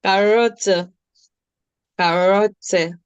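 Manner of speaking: Carotte ending in -te, not tea; correct pronunciation. Shown as a demonstration. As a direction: say Carotte cleanly to correct the class. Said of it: "Not tea".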